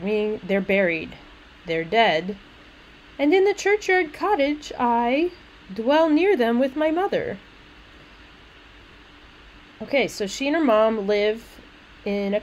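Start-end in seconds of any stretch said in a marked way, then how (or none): 3.2-7.4 higher-pitched poem reading; lightly sing-song verse. Acted. Little maid telling where she lives, lightly sing-song. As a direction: read it as a little maid's verse. Reads the maid's lines.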